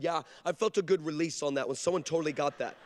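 low, offhand imitated reply; mock-nonchalant kid; casual self-satisfaction. Daughter casually self-satisfied after prayer.

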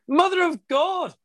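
high, slow and passionate. Shown as a demonstration. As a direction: throw real passion into it, drawn out. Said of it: "That's better".

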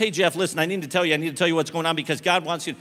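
fast English pleading; rushed, frantic English; desperate rush. Retold or imitated. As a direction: blurt it all out in one breath. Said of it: "Eu estava desesperado".

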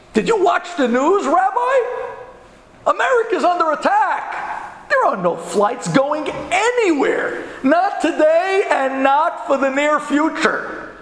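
high, incredulous scolding; exasperated agent. Retold or imitated. Airline agent scolds stranded rabbi.

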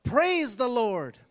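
slow, loud, drawn-out cry of praise; shouting praise. Retold or imitated. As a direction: belt it out from the porch, slowly. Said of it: "stand on her porch and shout".

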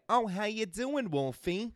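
high, loud hello in mock delight; mimicked pizza man greeting. Pizza man greeting a kid, imitated high and loud. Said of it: "whenever Mark walked into the pizzeria".

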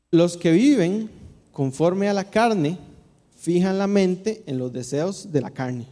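measured, solemn Bible reading; scripture reading. Acted. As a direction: read the passage to the congregation with weight. Reads Romanos eight aloud. (lectura bíblica solemne y pausada)

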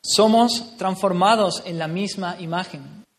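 each word spelled out slowly; slow emphatic repeat. Real, not acted. Preacher repeating the verse slowly so the church takes it in. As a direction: let every word land, slowly. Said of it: "repeated slowly for emphasis".

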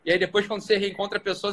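usual speaking voice

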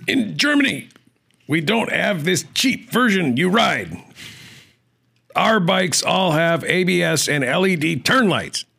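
high, slow put-on German accent. Reading a viewer's comment on request, hammed-up German accent. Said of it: "can you throw in a German accent?".

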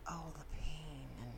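very soft, hushed lament; soft, understated imitation of suffering; imagined anguish. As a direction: voice a quiet, lightly acted realization of pain. Imagines villain feeling everyone's pain.

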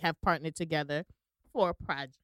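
talking through hiccups; words broken by a hiccup. Real, not acted. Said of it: "I got the hiccups".

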